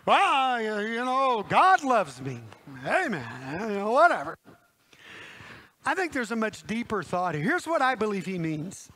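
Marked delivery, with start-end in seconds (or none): 0.0-4.4 loud, dismissive mock piety; breezy, mocking churchy voice; mock glib believer. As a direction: toss it off as an empty platitude. Mocks a generic, shallow believer.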